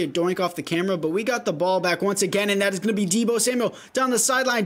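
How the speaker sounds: lively sports commentary; play-by-play. Acted. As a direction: call the game live. Live play-by-play of his game.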